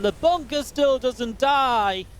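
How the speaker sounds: high, drawn-out exclamation over the action; excited commentator cry. Real, not acted. Big moment in live match commentary.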